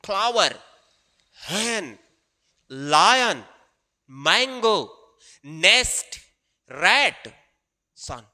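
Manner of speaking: मैंगो drawn out slowly; slow word demo. Shown as a demonstration. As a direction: stretch मैंगो long and slow. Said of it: "इन आप word को sound करके देखिए".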